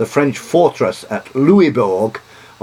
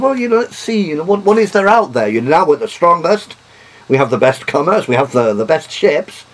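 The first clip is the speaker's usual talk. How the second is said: lightly voiced, higher and boastful; confident British voice; 7 semitones higher, 3 dB louder than usual. Lecturer voicing British ambition, mildly boastful. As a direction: play the proud sea power sizing up the world. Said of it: "encouraging Cook's expeditions was part of".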